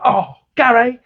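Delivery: high, whiny child impression; mock a kid begging for a favour; exaggerated pleading, pitched right up; spoiled kid. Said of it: "spoiled kid. You go".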